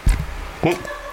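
wet dribbling noise through water; imitated piss noise. Shown as a demonstration. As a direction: gurgle water like peeing. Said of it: "trying to make a piss noise".

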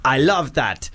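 a mock Arabian accent, lightly put on. Host reads listener's email in mock Arabian accent. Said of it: "That was, uh, an Arabian accent".

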